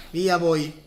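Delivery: unvoiced whisper. Real, not acted. Whispered aside.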